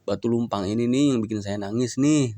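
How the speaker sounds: lightly voiced daughter grumbling to her father; complaining daughter. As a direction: play the tired daughter venting to her father.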